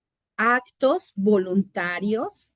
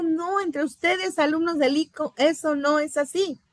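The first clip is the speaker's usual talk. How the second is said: higher, gently firm voice of the Lord; voicing the Lord; 6 semitones higher than usual. Bible teacher voices the Lord's reply to the students, higher and firm. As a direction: speak as the Lord correcting his disciples.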